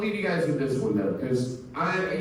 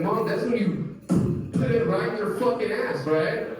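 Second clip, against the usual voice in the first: put-on higher, innocent kid voice; higher voice of a child explaining; 6 semitones higher than usual. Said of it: "I was like".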